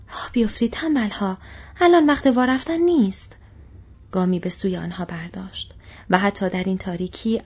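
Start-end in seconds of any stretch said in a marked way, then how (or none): 0.1-3.4 higher and louder angry yell; orc bellow. Acted. Orc driver bellowing at the lazy soldiers, loud. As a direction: roar at the lazy stragglers. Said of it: "بانگ زد".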